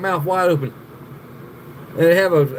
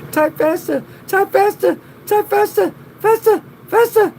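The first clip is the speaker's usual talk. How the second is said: rising, louder and higher each time; urging shout building; 4 dB louder than usual. Real, not acted. Urging a viewer to type faster, building shout. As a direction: push harder with every repeat, climbing to a yell. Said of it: "Type it fast".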